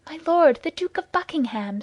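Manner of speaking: usual speaking voice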